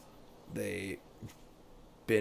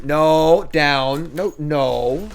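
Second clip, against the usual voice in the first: firm command; 5 dB louder, much slower than usual. Real, not acted. Commanding the dog to get down.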